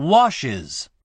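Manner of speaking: "washes" with iz after the sh. Shown as a demonstration. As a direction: say washes in two syllables, ending iz. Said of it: "イーエスの部分をisと".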